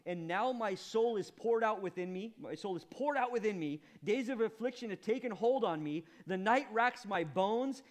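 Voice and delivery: building to loud and high lament; preacher reading Job's lament, rising; anguished reading. Acted. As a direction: read it as a man in torment. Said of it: "Verse fifteen says this".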